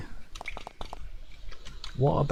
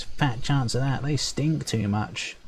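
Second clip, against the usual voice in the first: pinched nose; 3 semitones higher, slower than usual. Acted. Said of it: "He pinches his nose".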